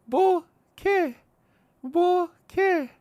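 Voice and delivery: high "Bo", pause, high "K"; syllable by syllable. Shown as a demonstration. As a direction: break it into two separate syllables, "Bo" and "K". Demonstrating the word syllable by syllable.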